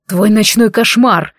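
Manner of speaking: медленно, с угрозой; прорычи угрожающе; рык. Acted. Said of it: "рыкнул я". (злой рык)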